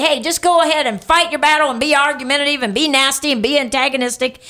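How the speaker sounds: mock permission. Pastor voicing what Paul doesn't say, mock permission. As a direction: rattle off a mock licence to fight. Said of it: "Paul doesn't say".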